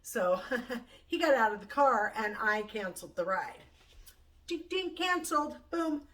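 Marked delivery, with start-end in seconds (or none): 4.5-6.0 gleeful sound effects. Real, not acted. Gleefully cancels the ride.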